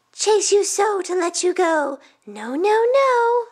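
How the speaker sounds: put-on high child's voice, rising to a loud last no; firm little boy saying no; refusing young boy. Youngest boy refusing to free the cake, high and emphatic.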